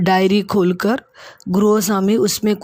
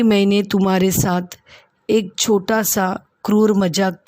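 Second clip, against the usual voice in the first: lovingly explaining. Acted. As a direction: kindly win her trust back. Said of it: "प्यार से Julia को समझाता है". (प्यार से धीमे समझाते हुए)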